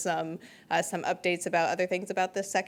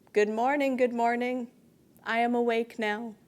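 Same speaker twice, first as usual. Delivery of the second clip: measured recital with pauses between lines; poetry reading; 4 dB louder than usual. Acted. Poet reading to a campus audience, measured poetry recital. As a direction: read it as verse, line by line. Poet reads their poem aloud.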